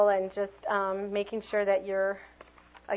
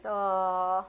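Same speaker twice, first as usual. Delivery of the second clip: sad oh. Shown as a demonstration. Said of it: "when you see sad face".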